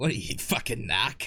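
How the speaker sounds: put-on Boston accent. Calling out games and cases, in his Boston voice. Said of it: "I call that my uh my Boston voice".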